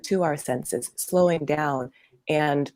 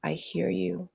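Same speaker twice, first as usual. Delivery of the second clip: soothing self-talk. Shown as a demonstration. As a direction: reassure the hurting part gently. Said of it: "literally speaking to it".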